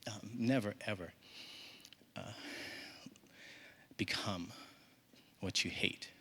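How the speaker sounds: low, soft, halting motherly counsel; solemn advice. Retold or imitated. Mother advises her son in the kitchen, quiet and solemn. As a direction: hand down the lesson quietly, with pauses.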